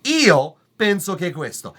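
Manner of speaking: speaking in Italian. Shown as a demonstration. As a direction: demonstrate an Italian phrase. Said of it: "because in Italian".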